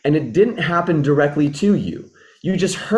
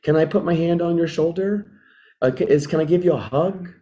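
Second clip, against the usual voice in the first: gentle offer; 2 semitones higher than usual. Shown as a demonstration. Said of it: "Then I need to tune into empathy".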